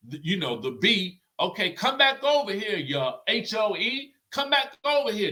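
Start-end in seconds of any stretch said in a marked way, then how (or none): 1.4-5.3 high-pitched mock yell without much volume; mock screaming. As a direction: imitate someone hollering across a room. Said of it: "the speaker is screaming at Jen".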